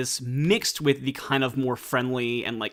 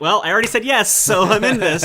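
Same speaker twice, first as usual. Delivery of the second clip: high, loud cheerful resignation; happily stuck with the choice; resigned eager; 9 semitones higher, 8 dB louder than usual. Retold or imitated. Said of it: "I'm like".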